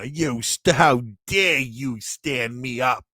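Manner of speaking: slow, lightly voiced mock outrage; mock angry girlfriend. Fan recalls a film scene, mild mock anger. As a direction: drag it out like an offended date. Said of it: "she's all mad".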